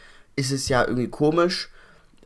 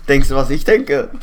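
trying not to laugh; 2 semitones higher, 10 dB louder than usual. Real, not acted. Suppressed laughter during a photo.

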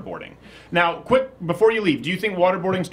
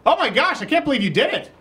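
amazed; 8 semitones higher than usual. Real, not acted. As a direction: react in shock at the stunt. Cricket eaten.

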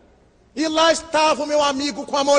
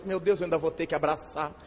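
dreading aside; 7 semitones lower, 9 dB quieter, faster than usual. Retold or imitated. Dreading greeting the couple.

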